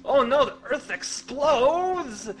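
announcing the next episode like a trailer; hammed-up announcer shout. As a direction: boom out the cliffhanger. Announcing cliffhanger.

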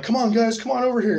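mock-taunting high call, waving them over; lightly imitating a cocky guy calling his crew. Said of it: "Cuervo's sitting there like".

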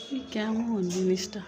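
soft asking. Real, not acted. Asks toddler softly. (নরম ধীর প্রশ্ন)

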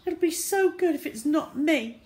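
hope desperately to be spared; anxious thought. A narrator's reading. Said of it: "he thought".

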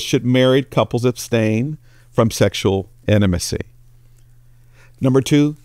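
normal talking voice

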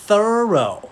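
thorough said high in two syllables, falling; thorough, two syllables, loud and falling. Shown as a demonstration. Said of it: "คำต่อไปครับ". (คำว่า thorough สองพยางค์ เสียงสูง)

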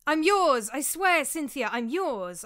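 high, loud pleading protest; frantic pleading, slowing at the end; desperate protest. A narrator's reading. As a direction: swear it, begging her. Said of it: "I protested".

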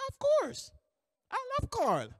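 very high, gushing imitation; acted high-pitched eager assurance; hyped-up supervisor. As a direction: gush affection in a high boss voice. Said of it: "this hyped up person".

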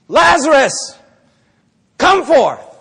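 loud, grand call into a tomb; hammed-up commanding call; mock summons. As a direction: call out as if raising the dead. Imagined calling at Lazarus' tomb.

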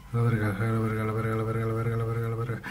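rapid monotone string of swearing; panicked repeating. Real, not acted. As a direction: rattle it off under your breath without a gap.

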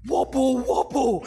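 mocking repetition. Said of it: "So awful".

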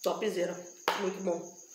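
speaking between bites; chewing while talking. Real, not acted. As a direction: mouth partly full. Seen 0: Cheeks puffed, mouth working on food from the plate throughout.

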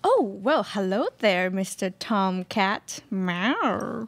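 coy flirting, Mister Tomcat drawn out slowly, then a meow; flirty cat lady. Acted. Cat lady flirting with the bachelor, coy purring greeting. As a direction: purr the greeting to tease him.

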